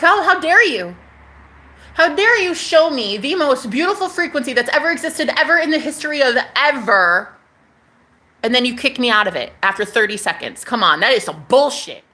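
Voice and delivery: reliving the fury at God, half-acted; mock outrage that fades into grumbling; retold anger. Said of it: "Man, I was so mad".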